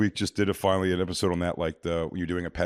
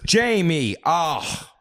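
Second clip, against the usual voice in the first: high cry of dismay, easing down; exasperated mother; 6 semitones higher, much slower than usual. Retold or imitated. Mom despairing of her son Jamie, exasperated. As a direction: imitate a mom at her wits' end.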